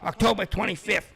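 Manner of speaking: lightly voiced goofy comic promoter; a hint of a zany Jerry Lewis pitch; Jerry Lewis impression. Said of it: "he's like the Jerry Lewis of pro wrestling".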